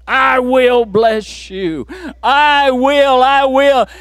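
shouted, rising promise from God; fervent shout. Acted. Preacher voicing God's promise to the church, shouting. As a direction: preach it out full force.

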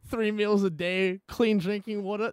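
sarcastic "oh yeah, such a bad year"; mock sympathy, then a slow list. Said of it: "And I'm like".

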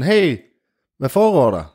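high, loud hey across the water; fleeing stranger calls out loud; calling out. Acted. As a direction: shout it across the river. Runner calls across the river.

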